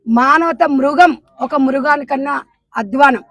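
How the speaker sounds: slow. Real, not acted. Condemning the father's crime.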